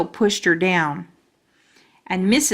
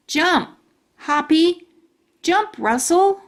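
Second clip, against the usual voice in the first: urging; 8 semitones higher, 3 dB louder, slower than usual. Acted. Boy urging dead crickets.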